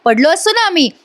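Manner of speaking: high-pitched, irritated scolding; angry scolding. Retold or imitated. Avani scolds Mahesh for opening the door on them, irritated. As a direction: snap at him for flinging the door open. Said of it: "Avni आता चिडते बरं का".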